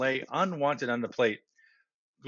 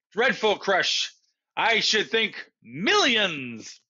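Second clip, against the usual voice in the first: slow remark; 6 semitones higher, slower than usual. Acted. Brother remarks, slowly.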